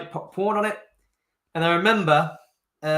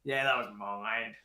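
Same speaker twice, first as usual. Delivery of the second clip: sheepish admission; 7 semitones lower, 10 dB quieter, slower than usual. Retold or imitated. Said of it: "I was like".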